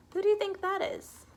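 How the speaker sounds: high, loud, thrilled question; excited. Acted. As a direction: lift the question up with wonder. Reading a picture book aloud.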